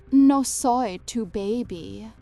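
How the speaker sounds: the doll mimicking the mother, turning on her; a creepy echo of mother's voice; eerie doll voice. A narrator's reading. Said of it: "It was my voice, my words".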